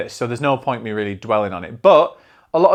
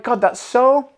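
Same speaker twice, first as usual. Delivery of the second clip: awed exclamation; 11 semitones higher, 4 dB louder, slower than usual. Retold or imitated. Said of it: "And I was like".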